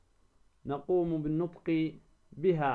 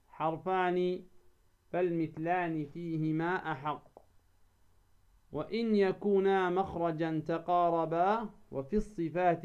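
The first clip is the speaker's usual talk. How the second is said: verse recitation. Acted. Tajwid teacher reciting the author's verses, measured recitation. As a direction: recite didactic verse deliberately, syllable by syllable.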